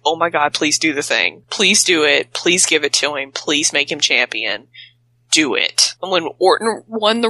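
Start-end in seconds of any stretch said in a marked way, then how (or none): 0.1-5.9 pleading. Retold or imitated. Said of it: "it's like".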